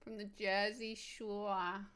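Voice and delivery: slow, stretched Jersey Shore in a mock British-New York accent; mixed British-New York accent. Streamer joking to chat about the Jersey Shore in a slow mock British-New York accent. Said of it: "mixing my British accent and my New York accent".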